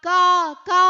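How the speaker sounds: mock crow cawing. Shown as a demonstration. Teacher imitating the crow's call. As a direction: caw like a crow for the kids. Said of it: "എന്നാണ് ഞാൻ കരയുന്നത്".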